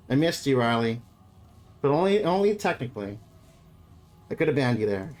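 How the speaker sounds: breathless and low; catching breath while joking; after a workout. Real, not acted. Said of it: "I'm catching my breath here".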